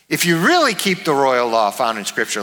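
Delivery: emphatic "really" near the start; stress on really. Shown as a demonstration. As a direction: lean hard on "really". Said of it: "like, really?".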